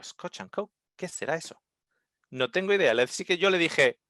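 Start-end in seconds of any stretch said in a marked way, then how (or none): 0.0-1.6 puzzled murmur. Retold or imitated. Confused at order.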